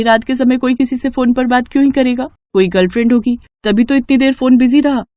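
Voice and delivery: daughter-in-law denying feelings to her mother-in-law; flustered young woman. Acted. Aarti reports the phone call.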